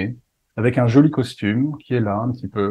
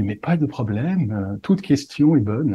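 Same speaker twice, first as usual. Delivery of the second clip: silly pompous voice; slower than usual. Retold or imitated. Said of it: "continuer à prendre cette voix débile".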